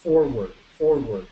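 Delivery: "Forward, forward" with each R lightly voiced; "forward", pronouncing the R a little; R sounded. Shown as a demonstration. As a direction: let the R be heard in "Forward". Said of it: "la hacen sonar un poco".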